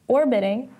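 "orbiting" with the weight on "or"; stress on first syllable. Shown as a demonstration. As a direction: hit the "or" of "orbiting". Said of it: "which has the first syllable stressed".

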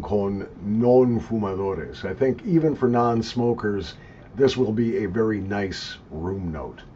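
speaking around pipe stem; pipe in mouth. Real, not acted. Seen 1: Long pipe stem held at lips, speaking around it, intermittently.

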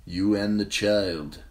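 slow, heavy and grim. A narrator's reading. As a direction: let the bad news sink.

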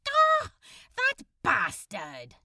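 loud shocked gasp and curse. Acted. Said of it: "Crowley gasped with shock".

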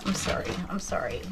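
whisper. Real, not acted.

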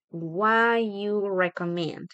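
slow "What you" as "wha-you"; slow, reduced "What you" for learners; dropped "do". Shown as a demonstration. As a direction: stretch it out, no "do" sound. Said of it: "solamente va a sonar what you".

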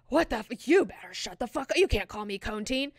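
mock outrage in a put-on voice; pretend pissed. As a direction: play at being offended, half-serious. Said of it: "she's pretending to be pissed".

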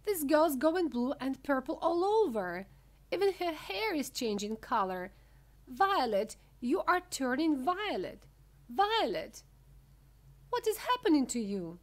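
high, loud horrified cries; mother wailing out her alarm; yell. A narrator's reading. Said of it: "yelled Missus Beauregard".

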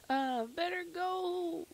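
a hint of a character voice. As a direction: slowly voice a game character. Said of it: "what voice I did for this guy".

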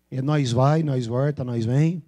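drawn-out caipira country speech; rustic caipira twang; caipira accent. Shown as a demonstration. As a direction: imitate São Paulo countryside caipira. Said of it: "é bem caipira".

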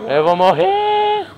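very high, slow drawn-out wail; hammed-up cry of doom; mock panic. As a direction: wail it like a goner.

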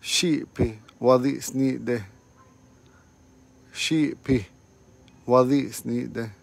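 Shipi wadisnide, each syllable slow and clear; slow teaching demo. Shown as a demonstration. Teacher repeating a phrase for students, slow. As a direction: say Shipi wadisnide slowly for learners. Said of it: "And you're late again".

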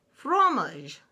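high-pitched French poodle. A narrator's reading. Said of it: "said Z Poodles".

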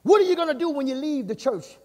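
forceful, rising preaching questions. Real, not acted. Preacher challenges church about who is Lord, forceful preaching. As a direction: press the church hard with each question.

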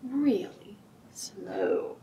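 drawn out very slowly; really slow. Shown as a demonstration. Storytime leader showing kids slow waving, very slow. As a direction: stretch every sound out to show slow. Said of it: "And really".

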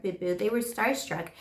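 ordinary talk

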